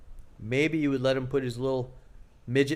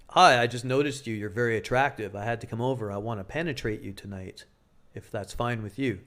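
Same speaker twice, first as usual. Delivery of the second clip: lower, calm and steady; deep even tone; 4 semitones lower than usual. Shown as a demonstration. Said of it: "you talk in a deep, even tone".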